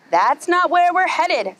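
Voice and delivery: high, slow parrot objection; parrot protest. Acted. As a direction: squawk it in protest.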